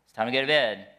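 a touch of a stern father; dad sternly ordering Abby out of the pool; stern parent. Retold or imitated. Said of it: "So then I get stern".

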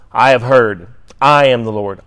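"I" leaned on firmly at the start of each phrase; stress on I. Shown as a demonstration. Teacher showing students where emphasis falls, stressing "I". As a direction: put the weight on "I". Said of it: "with the emphasis on the "I".

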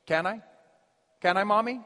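mock child pleading with Mommy; begging little kid. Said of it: "you know how it goes".

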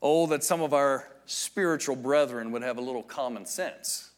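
lightly sarcastic sigh of a quote; somewhat sarcastic. Retold or imitated. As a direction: quote it with mild, dry sarcasm. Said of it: "he somewhat sarcastically says".

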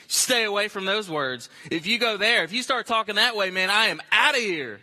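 lively protest, quickening then punched at the end; wary churchgoer. Acted. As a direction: push back like a fed-up church member. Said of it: "that's the, the feeling you kinda get".

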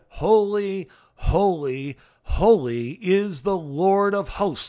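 loud, slow declaration of holy; "Holy, holy, holy" called out loud and slow, stress on "Lord"; proclaimed cry. Acted. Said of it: "One called to another and said".

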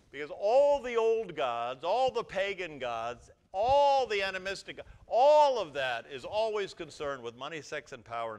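loud, slow, stressed ALLs; preaching at full force. Acted. Pastor pounding the list, loud and slow. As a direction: pound each all. Preaching emphasis on old gods.

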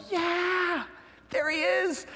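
high, playful mock narration; lightly voiced excited aside; mock eager yeah. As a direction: tease it like a sly aside. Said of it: "And I'm like".

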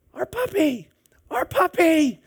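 high frantic mock wail for a lost pet; hysterical neighbor yelling. Neighbor shrieking for her missing puppy, imitated in a high frantic voice. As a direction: cry out like a panicked neighbor who lost her dog. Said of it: "she's yelling".

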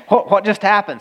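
laughing through the question; half-laughing, stunned by what just happened; chuckling in disbelief. Real, not acted. Laughing at the sudden rescue.

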